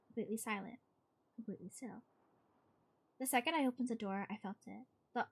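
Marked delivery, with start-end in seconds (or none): 1.4-2.0 breathy spooky whisper. A narrator's reading. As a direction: breathe it out, hushed and eerie. Eerie silent house scene.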